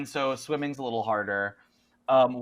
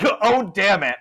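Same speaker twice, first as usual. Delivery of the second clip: higher, louder character curse; Jed, exasperated; 7 semitones higher, 5 dB louder than usual. Acted. Game master as Jed facing creatures, exasperated curse. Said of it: "Not in a Southern accent at all".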